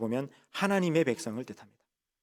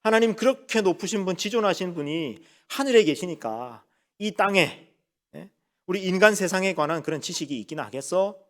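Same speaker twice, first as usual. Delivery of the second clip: higher-pitched imitation of scoffers; mocking scoff; 5 semitones higher than usual. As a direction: voice the doubters' mild jeer at God. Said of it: "신앙을 조롱하는 겁니다".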